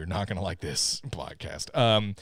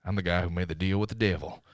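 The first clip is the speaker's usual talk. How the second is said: lightly voiced Cage, brooding and gruff; a touch of growling menace; Nick Cage impression; 3 semitones lower, faster than usual. Host repeating the Cage line in a light impression. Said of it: "here's my best Nick Cage impression".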